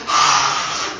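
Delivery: voiceless mock fan scream; airy "aah" imitating screaming fans; imitated crowd scream. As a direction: fake a crowd's roar without real volume. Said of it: "막 소리를 막 지르고".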